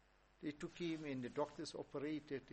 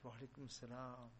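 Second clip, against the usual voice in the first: cool and calm; 5 dB quieter than usual. Retold or imitated. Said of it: "Junaid is cool, calm".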